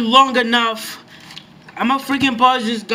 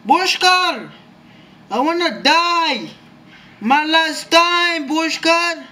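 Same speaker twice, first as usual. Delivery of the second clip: high, loud pleading yells; desperate calls; 5 semitones higher, 3 dB louder, slower than usual. Real, not acted. Gamer dying, yelling for his teammate, desperate and loud. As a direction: call out to the teammate in panic.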